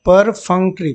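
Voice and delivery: परफंक्ट्री in clearly parted syllables; pronunciation demo. Shown as a demonstration. Teacher shows students the pronunciation, परफंक्ट्री carefully segmented. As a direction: sound out परफंक्ट्री part by part. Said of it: "pronunciation इसका देख लेंगे".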